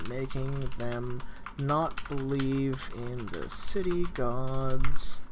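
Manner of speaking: slow, deliberate dictating pace for note-taking; slow dictation. Shown as a demonstration. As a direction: spell it out word by word so students can write. Dictating notes to class.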